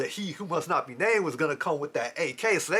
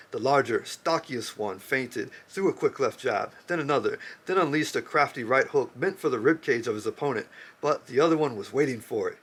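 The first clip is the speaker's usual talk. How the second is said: measured book-reading voice; story reading; 2 semitones lower than usual. Acted. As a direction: read it like a novel passage. Reads a novel passage aloud.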